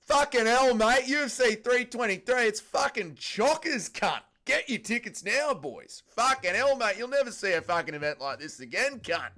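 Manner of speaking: put-on loud, high broad Aussie accent hyping the event; Aussie Dana impression. Aussie Dana hyping the fight card, loud broad Aussie accent. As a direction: bellow it like an Aussie promoter selling tickets. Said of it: "impression of Aussie Dana and the matchmakers".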